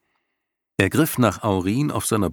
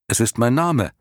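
put-on boy voice; 5 semitones higher, 3 dB louder than usual. Bastian answers the lion.

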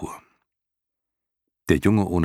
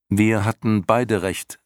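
put-on higher, urgent young hero pleading; Atreju's earnest boy voice; 6 semitones higher, 4 dB louder than usual. A narrator's reading. Atreju vouches for Bastian before the snakes, pleading higher boy voice. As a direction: speak up for your friend, higher and eager.

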